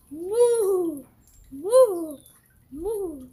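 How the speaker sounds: loud mooing; cow moo. Pretend. Cow sound asked for.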